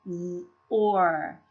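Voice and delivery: "z, or" as two separate sounds; sounds separated. Shown as a demonstration. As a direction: sound out "z, or" piece by piece. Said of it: "second syllable an R controlled vowel".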